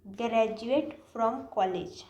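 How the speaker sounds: graduate from college said very slowly; teacher modelling the correct phrase slowly; slow model answer. Shown as a demonstration. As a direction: model the right phrase, stretching each word. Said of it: "हमको सही क्या बोलना है".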